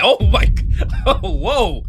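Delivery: breathy laughing gasp, then a high whoa; real laughing amazement; delighted laugh. Real, not acted. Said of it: "face like".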